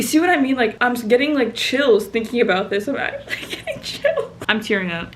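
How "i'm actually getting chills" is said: words breaking into a real laugh; laughing through words. Real, not acted. Recalling the presentation to viewers, laughing through it. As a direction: giggle as you say it.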